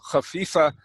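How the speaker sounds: "khafifa" said lightly, without weight on any sound; light pronunciation. Shown as a demonstration. Teacher shows how the word for light sounds, "khafifa" said lightly. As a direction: keep "khafifa" light and easy. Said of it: "a light way of saying it".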